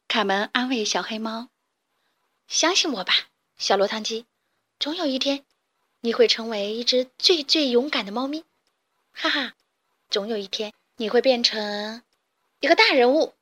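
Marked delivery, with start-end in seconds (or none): 2.5-13.3 cheerful encouragement. Acted. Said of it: "卡门大声地说".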